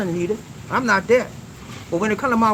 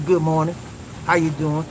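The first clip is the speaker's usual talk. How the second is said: lower, offhand mock greeting; superficial greeting; 6 semitones lower than usual. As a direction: toss off a shallow hello. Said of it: "no superficial".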